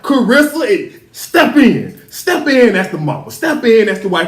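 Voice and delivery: emphatic mock order to a wife; exasperated urging. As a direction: plead and command, punching each opening phrase.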